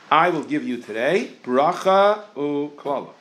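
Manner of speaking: slow, chanted reading of "bracha u'klala"; reciting the verse. Shown as a demonstration. A rabbi quotes the verse to his class, slow and chanted. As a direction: intone it like a verse being read aloud. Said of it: "The pasuk says".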